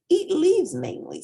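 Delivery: giraffe voice. A narrator's reading. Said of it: "said the giraffe".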